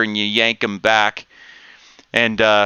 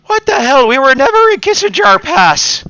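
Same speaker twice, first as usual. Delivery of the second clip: high, loud indignant outburst; higher, louder hammed-up dwarf protest; outraged dwarf; 5 dB louder than usual. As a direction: blurt it out, caught and furious. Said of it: "and he goes".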